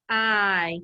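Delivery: "I" after a puff of h, as in hi; long, held eye vowel on "I"; sounded-out long I. Shown as a demonstration. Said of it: "I hear the I sound".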